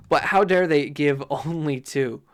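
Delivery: playfully affronted complaint; how-dare-they huffing; grumpy indignation. Acted. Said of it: "that gives me the grumpies".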